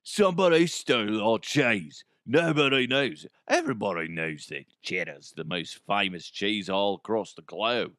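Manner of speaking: hammed-up Cockney impression; mock Cockney. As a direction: put on a broad, comic Cockney accent. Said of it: "Isn't that Cockney?".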